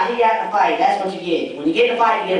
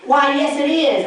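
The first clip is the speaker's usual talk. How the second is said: higher, prim, mock-proper "Why, yes"; proper annoyed hostess; 4 semitones higher than usual. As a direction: imitate an annoyed lady speaking proper. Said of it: "they gotta speak proper 'cause they're annoyed".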